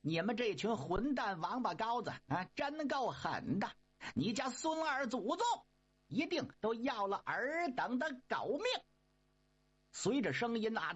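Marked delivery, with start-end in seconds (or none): 0.0-8.6 sharp angry shout. Acted. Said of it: "一声断喝".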